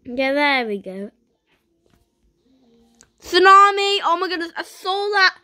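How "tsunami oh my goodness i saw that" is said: a high, loud warning cry; alarmed shout. Real, not acted. Spotting the tsunami, an alarmed warning shout. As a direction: call out the danger.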